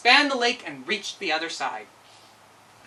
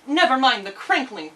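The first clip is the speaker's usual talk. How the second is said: put-on higher, louder little girl voice; Dorothy; 5 semitones higher, 5 dB louder than usual. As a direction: brave little girl brushing off danger. Dorothy reassures Toto.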